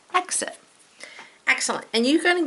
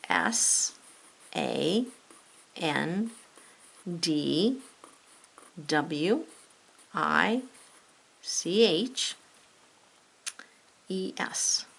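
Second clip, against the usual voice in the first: spelling aloud; 5 dB quieter, much slower than usual. Shown as a demonstration.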